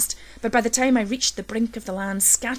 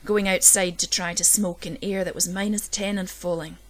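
ordinary delivery, nothing marked

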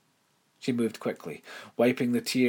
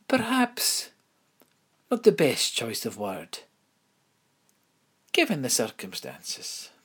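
prim headmistress. Acted. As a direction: speak like a proper headmistress. Narrator voices headmistress.

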